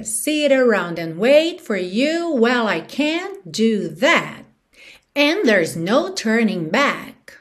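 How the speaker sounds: slow, drawn-out lyric; song rhythm. Shown as a demonstration. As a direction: recite it slowly in the song's rhythm. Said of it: "te dando no ritmo da música".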